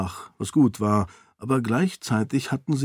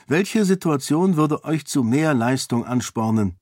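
put-on raised, earnest young woman's voice, arguing her case; a princess pleading for the peasants, lightly higher; Sarene, persuasive princess; 4 semitones higher than usual. Sarene argues with the lords. (Sarene, eindringlich und höher gesprochen)

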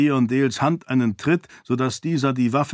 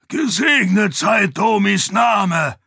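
much higher, louder, slow cry of joy; jubilant shout; 9 semitones higher, 5 dB louder, slower than usual. A narrator's reading. Keyin hugs Sarene and shouts with joy. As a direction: roar your thanks to heaven. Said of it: "jubelte Keyin".

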